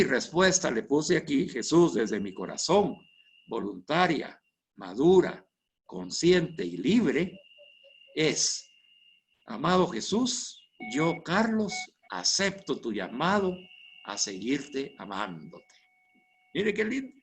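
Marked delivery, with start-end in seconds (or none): 1.5-8.7 slow, halting read of a prayer being written, line by line. Shown as a demonstration. Teacher shows the class his written reply to Jesus, slow and halting. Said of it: "después se la voy a leer de corrido". 9.5-15.7 slow prayerful reading. Shown as a demonstration. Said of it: "se la voy a leer de corrido".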